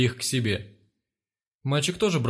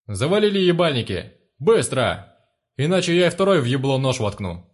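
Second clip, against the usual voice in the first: furious shout; 5 dB louder than usual. Acted. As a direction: roar them into silence. Thug silencing screaming room.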